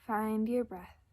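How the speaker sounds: calm, unhurried guidance with long pauses; gentle meditation leader's delivery; guided meditation. Acted. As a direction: ease listeners into breath and body, leaving space. Leads a breathing meditation.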